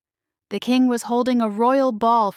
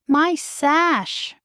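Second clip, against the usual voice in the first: wailing; 7 semitones higher than usual. A narrator's reading. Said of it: "Anastasia wailed".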